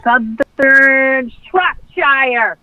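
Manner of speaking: drawn-out mock English accent; put-on English accent. Co-host guessing where a listener lives, put-on English accent. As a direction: ham up a slow English accent. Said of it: "Is that your English accent?".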